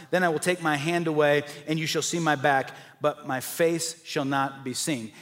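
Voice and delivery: solemn reading of God's words, slowing at the end; measured scripture voice. Acted. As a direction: read it like holy writ. Reads scripture as God speaking.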